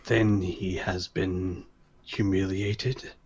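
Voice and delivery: slow, measured guard voice; slow rumbling question. Acted. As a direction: ask it slowly like a giant. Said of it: "the creature says".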